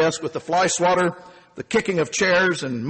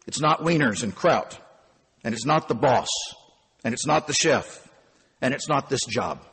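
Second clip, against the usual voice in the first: a hint of a weary elder lecturing, low and calm; Sigmund Wohlman; 3 semitones lower than usual. Night auditor setting the angry young clerk straight, low and patient. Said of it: "Sigmund Wohlman, the night auditor".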